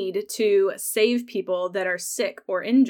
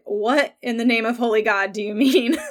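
outraged Jamie; 2 semitones higher, 5 dB louder than usual. Retold or imitated. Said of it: "he is like".

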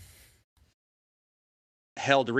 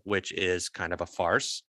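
blurted confession; 2 semitones lower, 3 dB quieter than usual. Real, not acted. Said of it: "Oh, I said that out loud".

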